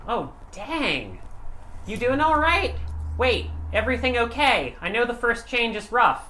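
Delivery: high, loud worried dad. Retold or imitated. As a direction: fret over your kid like a dad. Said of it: "Your dad's like".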